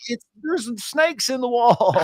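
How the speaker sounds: dog voice. Retold or imitated. Dog's voice in retold story.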